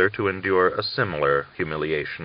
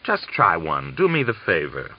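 mock affable. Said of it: "bowed with exaggerated affability".

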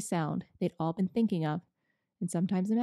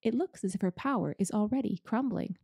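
delighted. Acted. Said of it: "almost dancing with delight".

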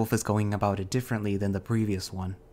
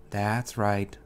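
encouraging. Acted. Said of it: "he encourages me".

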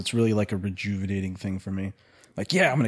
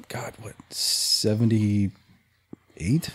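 whisper; 2 semitones lower, much slower than usual. Real, not acted. Musing aloud, whispered.

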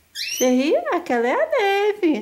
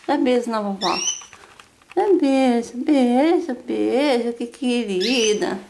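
low cooing, slowing to a drawn-out endearment; tender pet talk; 5 semitones lower, slower than usual. Real, not acted. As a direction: coax kisses tenderly, stretching the final word. Asking the pet for kisses. (voz carinhosa e dengosa, arrastando no fim)

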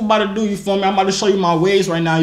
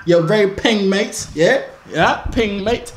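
cheeky British slang delivery; put-on British accent; slower than usual. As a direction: say it like a British lad. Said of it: "I switched from British".

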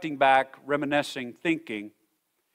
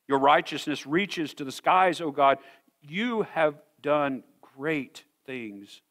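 scripture reading. Acted. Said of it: "let me read this passage over you".

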